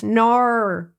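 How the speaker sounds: a light Australian "Nar" for no; drawn-out Australian "Nar" with no r sound; imitating a friend's Australian no; Australian accent. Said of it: "her Australian accent in the one word".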